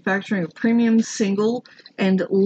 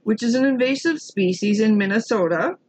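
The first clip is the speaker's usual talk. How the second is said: put-on Minnesotan accent; 4 semitones higher than usual. Reading the founder's statement on Asian carp, Minnesotan accent. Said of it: "he's Minnesotan, so I gotta do the accent".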